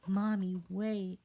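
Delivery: put-on high, loud kid's cry; child calling out. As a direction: call after mommy.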